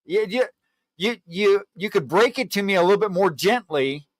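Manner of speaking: high, stammering indignant complaint; exasperated scolding. Acted. Joke friend scolds buddy for bluntness, high and indignant.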